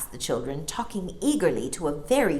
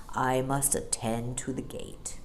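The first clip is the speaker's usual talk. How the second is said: whisper; 4 semitones lower, 6 dB quieter than usual. A narrator's reading. Bear speaks, whispered.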